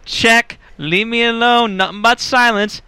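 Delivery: put-on female Southern accent. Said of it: "a female Southern accent".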